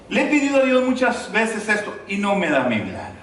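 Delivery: mild mock complaint to God; lightly acted reproach; complaining. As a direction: grumble like a disappointed believer. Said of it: "Ya estás haciendo complaint, ya le estás reclamando".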